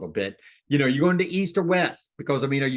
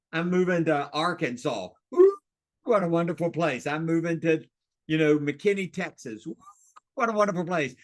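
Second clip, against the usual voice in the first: delighted seller. Shown as a demonstration. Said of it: "let me give you a, an example".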